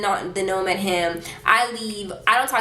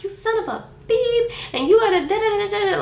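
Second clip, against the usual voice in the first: high-pitched mock tirade, garbled into da-da-da; retold cursing rant; 13 semitones higher than usual. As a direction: rattle off a high, hammed-up angry rant. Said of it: "I was, like, cursing".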